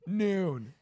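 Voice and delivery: slow, emphatic mock warning; a grave, drawn-out ad warning; dead serious. Comic pitching a hummus ad's warning, dead serious. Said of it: "really fucking serious".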